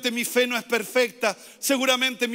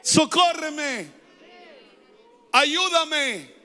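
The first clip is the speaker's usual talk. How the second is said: shouting for help; 4 semitones higher, much slower than usual. Pretend. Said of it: "voy gritando".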